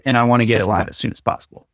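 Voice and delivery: fast, tossed-off retold request; hurried. Imitating client rushing to go live, hurried. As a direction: rattle it off as an afterthought. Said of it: "was getting it done fast".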